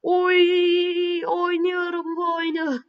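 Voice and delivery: high, loud thrilled cry; excited shout. Real, not acted. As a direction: yell it out, delighted with yourself. Thrilled at a goal chance.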